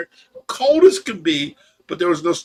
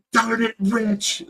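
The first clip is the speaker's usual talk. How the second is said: slow, restrained mock scolding; quiet yelling; 3 semitones higher, much slower than usual. Tracy mad at her laughing husband, quiet mock yell. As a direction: imitate a mild yell that stays quiet. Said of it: "Even when she yelled, she was quiet".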